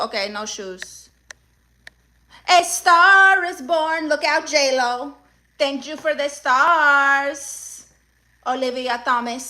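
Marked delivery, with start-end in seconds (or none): 2.5-7.4 crown yourself like a diva on stage; dramatic star announcement. Acted. Streamer repeats star celebration.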